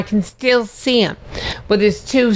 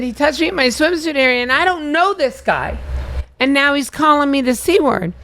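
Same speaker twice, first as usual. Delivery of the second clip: higher and faster, a rushed mock-indignant tattle; flustered complaint; 6 semitones higher than usual. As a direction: rattle it off high and quick like an outraged tattletale. Retelling her own flustered complaint.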